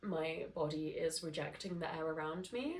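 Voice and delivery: blocked nose from hay fever; stuffy, nasal hay fever voice. Real, not acted. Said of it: "my gorgeous nasally voice".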